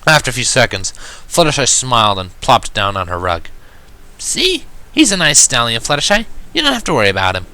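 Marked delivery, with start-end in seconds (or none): 4.2-7.5 high, bright confident declaration; declaring. A narrator's reading. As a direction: reassure her friend with brash certainty. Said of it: "Rainbow Dash declared".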